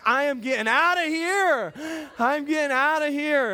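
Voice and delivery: hammed-up getaway cry; acted alarm. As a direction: announce a hasty escape. Retold panicked flight from the mess.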